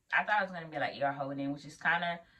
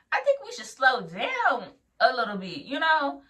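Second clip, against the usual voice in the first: high pleading whine; 8 semitones higher, slower than usual. Retold or imitated. Pleading with preceptor.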